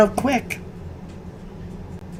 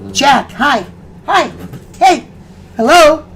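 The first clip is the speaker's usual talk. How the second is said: high pet voice; 6 semitones higher, 5 dB louder than usual. Real, not acted. Cooing to the dog to redirect.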